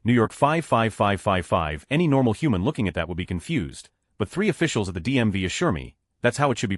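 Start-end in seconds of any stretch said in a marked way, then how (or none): 0.0-1.9 slow. Shown as a demonstration. Reading out the printed address.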